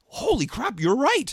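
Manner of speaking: high, mock-astonished client; a lightly voiced wide-eyed client; amazed client. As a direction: play the client suddenly convinced. Client voiced in retold exchange.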